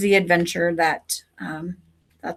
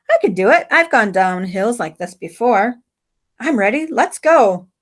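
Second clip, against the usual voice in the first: put-on eager girl; 3 dB louder than usual. Margot at the hilltop, eagerly ready to go. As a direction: psych yourself up to ride down.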